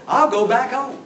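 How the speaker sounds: high, loud mock whine; whiny, wheedling. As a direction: imitate a wheedling offer to give in. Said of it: "with a whiny, wheedly voice".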